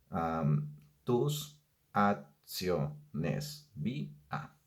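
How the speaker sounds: drawn-out syllables, very slow; slowly scanning the end of the verse; slow scansion. Shown as a demonstration. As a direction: stretch each syllable out. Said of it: "De-, regresamos".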